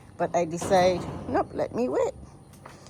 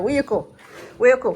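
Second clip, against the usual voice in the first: light mock birdcall, louder on the last one; imitating the bird call; 4 semitones higher, 6 dB louder, faster than usual. Telling viewers how the bird sounds, a light mock call. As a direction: echo the bird's chirpy question. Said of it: "Something like that".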